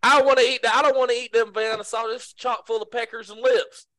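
high, loud quoted complaint; movie complainer. Acted. Acting out a film character refusing food, high and loud.

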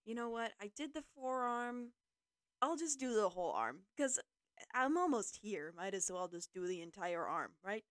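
animated self-quote, ending on a tossed-off "right?"; impulsive self-talk. Retold or imitated. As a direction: talk yourself into the bigger job. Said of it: "then I was just like".

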